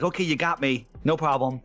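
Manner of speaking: light hands-up giving in; a hint of a manager conceding; mock surrender. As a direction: play it like you've been caught out. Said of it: "Like, hands up".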